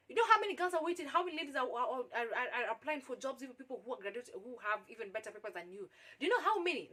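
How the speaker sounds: mock worked-up tirade, pushing the questions; agitated. Boss berating a job seeker about competition, agitated. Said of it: "he's talking as if he's so agitated".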